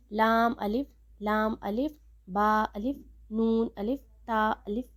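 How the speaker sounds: "لام الف، با الف" run together with no pause between the letters; wrong rushed way. Shown as a demonstration. Teacher showing students the wrong way, letters rushed together. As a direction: rattle off "لام الف، لام الف" without stopping. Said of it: "ایسے نہیں پڑھنا".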